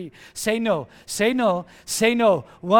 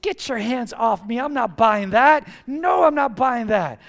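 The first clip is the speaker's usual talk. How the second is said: mean refusal. Pretend. Pastor voicing a firm no to a salesman. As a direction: push the salesman off, firmly. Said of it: "You gotta just get mean".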